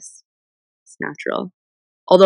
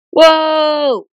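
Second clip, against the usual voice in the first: high, loud whoa of surprise; surprised whoa; 9 semitones higher, 7 dB louder than usual. Real, not acted. Watching likes flood her livestream, a loud surprised whoa. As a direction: gasp it out as the likes pour in.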